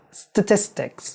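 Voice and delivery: statistics with stress hitting the middle syllable tis. Teaching English word stress, stress on middle syllable 'tis'. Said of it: "ودوس على الحتة اللي في النص فتبقى statistics".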